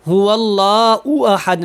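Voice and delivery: هو اللہ احد with او and hamza sound, the wrong way; wrong reading demo. Shown as a demonstration. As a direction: show the mistake to avoid. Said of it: "نہیں پڑھنا". (غلط انداز کی مثال)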